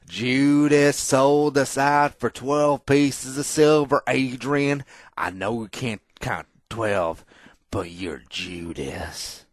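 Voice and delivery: high, loud, slow preaching as a betrayed fan; mock zealot fan. Podcaster imitating Peterson zealots, high, loud, slow mock wail. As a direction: ham up a wounded zealot denouncing a traitor. Mocking Adrian zealots burning jerseys.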